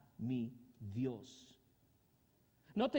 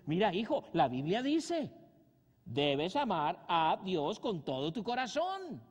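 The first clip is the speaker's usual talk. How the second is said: louder, slow and preachy like a father; stern father lecturing son; 5 dB louder, slower than usual. Retold or imitated. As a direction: lay down the law to your boy, slowly.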